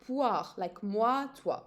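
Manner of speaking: "poire" with oi as wa, slow and clear; teacher modelling the wa sound in "poire". Shown as a demonstration. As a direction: say "moi" and "toi" with a clear wa sound. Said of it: "pronounced wa".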